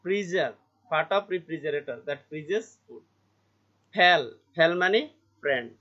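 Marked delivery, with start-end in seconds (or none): 0.1-3.0 slow reading. Shown as a demonstration. Teacher reads definition slowly.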